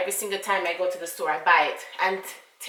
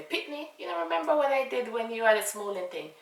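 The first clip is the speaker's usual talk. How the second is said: gentle dad voice; 4 semitones higher than usual. Retold or imitated. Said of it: "Like he's saying to me".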